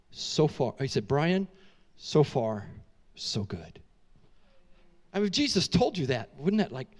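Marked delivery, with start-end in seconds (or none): 0.1-0.8 tender Jesus voice. Retold or imitated. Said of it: "the one I love said to me". 1.1-3.8 tender Jesus voice. Retold or imitated. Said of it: "the one I love said to me".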